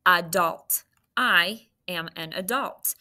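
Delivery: "Adult" said clearly with stress on the second syllable, ə-DULT; model the word. Shown as a demonstration. Teacher modelling the word adult. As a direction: sound it out for the class. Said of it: "Say it".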